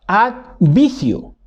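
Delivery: "ad vicio" slowly split in two, stress on "ad". Shown as a demonstration. Teacher splitting the word for students, slow and deliberate. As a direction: say "ad" then "vicio" as separate parts. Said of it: "sino que advice".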